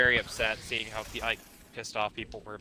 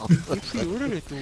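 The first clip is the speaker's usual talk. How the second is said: put-on slow, loud, high Canadian accent; exaggerated Canadian accent; 6 semitones higher, 5 dB louder than usual. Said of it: "Why do you turn Canadian?".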